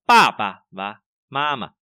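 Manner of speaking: papa, mama with light second syllables; heavy first syllables. Shown as a demonstration. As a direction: stress first pa and first ma. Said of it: "đọc nặng cái này ra". (nhấn pa và ma đầu)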